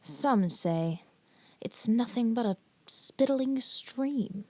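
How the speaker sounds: lightly hammed-up TV presenter introduction; dramatic intro. Host introducing the most dangerous stretch of water, mock-dramatic. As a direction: announce it with mock gravity, pausing between phrases.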